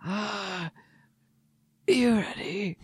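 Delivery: breathy whisper of the question. Acted. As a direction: hush it right down.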